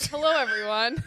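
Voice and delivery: podcast voice. Acted. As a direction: put on the podcast host voice. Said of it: "This is your podcast voice".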